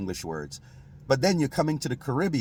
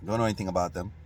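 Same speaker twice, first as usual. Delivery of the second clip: a mildly blank, indifferent don't-know; clueless young person; 4 semitones lower, 6 dB quieter than usual. Retold or imitated. Younger Kittitians asked about the Portuguese, softer and lower, mildly indifferent. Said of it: "the younger generation are like".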